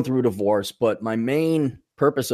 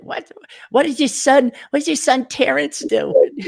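high mock old New York Jewish mother accent; old New York Jewish lady; 14 semitones higher than usual. Host imagining guest's mother scolding her son, mock New York Jewish accent. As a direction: imitate a nagging old New York Jewish mom, pitched up. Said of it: "some kind of old Jewish lady from New York".

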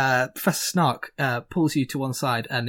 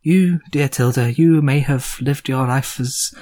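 wise Gorm; 2 semitones lower than usual. Acted. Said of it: "Gorm says to you".

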